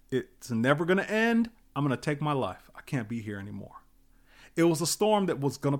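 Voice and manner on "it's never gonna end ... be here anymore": despairing inner voice. Retold or imitated. Voicing a despairing person.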